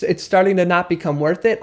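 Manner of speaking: mild questioning echo, rising at the end; questioning mirror. Shown as a demonstration. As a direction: repeat it back like a curious "huh?". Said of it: "almost like you're like, "Huh?".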